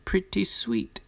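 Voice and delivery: breathy whisper. Real, not acted. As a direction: whisper it to yourself. Whispered aside.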